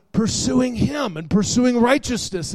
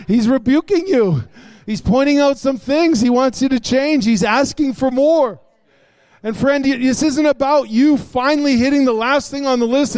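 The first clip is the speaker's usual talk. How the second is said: raised, insistent pulpit voice; emphatic preaching; 6 semitones higher, 5 dB louder than usual. Acted. Preacher telling friends that God asks for more, emphatic preaching. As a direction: press the point on the congregation, pitched up.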